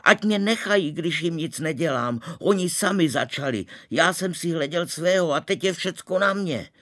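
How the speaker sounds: very high, loud desperate cry; yelling. A narrator's reading. Boy screaming at the charging crowd, high and loud. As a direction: scream to be left alone. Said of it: "jsem začal křičet".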